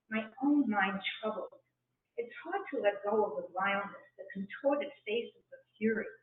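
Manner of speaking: calm, unhurried recital with breathing cues; meditation poem reading. Acted. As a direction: guide the listener inward.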